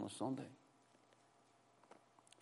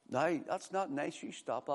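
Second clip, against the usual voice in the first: mild daddy scolding; 4 semitones higher, 5 dB quieter than usual. Retold or imitated. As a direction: imitate a dad's half-hearted ticking-off. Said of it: "the daddy goes".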